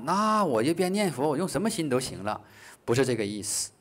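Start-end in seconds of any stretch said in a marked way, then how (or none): 0.0-2.4 mock realisation. Teacher voicing a student who heard wrong, mock realisation. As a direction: act out a pupil jumping to the wrong conclusion. Voices a student's mistaken conclusion.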